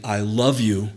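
lightly voiced loving Father, gentle and sincere; gentle reassurance; Father's tender voice. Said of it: "that voice you hear is saying".

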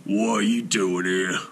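shout. A narrator's reading. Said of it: "Thrym shouted".

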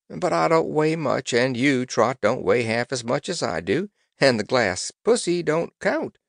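put-on loud, high old sailor; hearty old seaman reassuring the girl; gruff old fisherman. Old sailor Cap'n Bill speaking.

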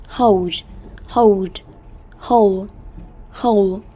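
"hold" with a clear long O; isolated, careful "hold" showing the O sound; O vowel. Shown as a demonstration. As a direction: model "hold" word by word with an oh vowel. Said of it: "âm O".

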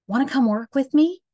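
put-on eager high kid voice tripping over an extra come; misread line. Shown as a demonstration. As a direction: read it wrongly as wanna come work with me. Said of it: "I accidentally added in a word".

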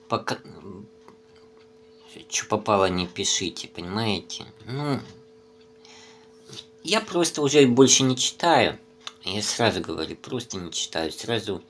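chewing between words; talking while eating noodles. Real, not acted. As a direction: mouth full of food. Seen 2: spoon of noodles held at lips while he talks.

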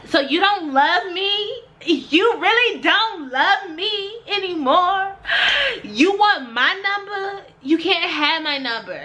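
high, slow, hammed-up acting; audition monologue. Shown as a demonstration. Nervous auditioner improvising her monologue, high and hammed up. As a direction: overplay it as a rambling, wounded lover. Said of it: "I start off with that line".

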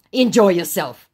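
acted dismissive retort; loud scammer retort. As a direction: say it loudly as the scammer. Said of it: "your eardrums going".

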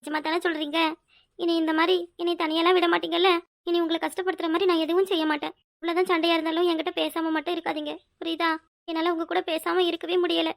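softly seeking reassurance, close to tears; tearful pleading. Acted. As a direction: plead quietly through held-back tears. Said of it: "நீ முதல்ல அழாத". (அழுகையுடன் மென்மையாகக் கெஞ்சும் குரல்)

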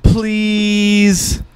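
high pleading, then a lightly hammed-up plea; mock-dramatic plea, half sung; dramatic reading of Ben. Podcast host hams up his cohost's plug as a pleading plea. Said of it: "dramatical reading of Ben plugging himself".

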